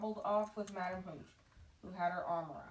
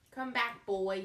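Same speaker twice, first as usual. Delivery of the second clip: louder sudden call after him; shout; 3 semitones higher, 7 dB louder, slower than usual. Acted. Teacher shouts at the boy rising on the broom, loud call. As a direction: yell it as he shoots upward. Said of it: "she shouted".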